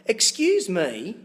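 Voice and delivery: put-on Canadian accent. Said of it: "in a Canadian accent".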